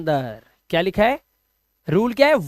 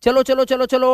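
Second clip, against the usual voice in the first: higher-pitched repeated urging; mock herding call; 4 semitones higher than usual. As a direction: drive them along like a flock of sheep. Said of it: "भेड़ बकरी को चरा रहा हूं".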